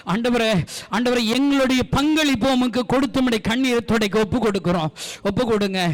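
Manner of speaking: fervent prayer and blessing over the church; pastor's final blessing; closing prayer. Acted. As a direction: pray it over them.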